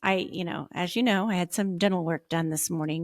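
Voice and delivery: talking out of the side of the mouth; out of mouth corner. Real, not acted. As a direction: numb lopsided mouth after dental work. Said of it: "I'm talking out of the side of my mouth".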